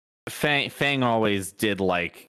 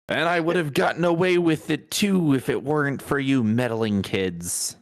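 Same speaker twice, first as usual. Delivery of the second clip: lightly hammed-up villain, pitched up, dropping at the end; mock cartoon villain; 5 semitones higher than usual. Joking that the mystery is solved, in a mock villain voice. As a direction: play at a thwarted cartoon villain.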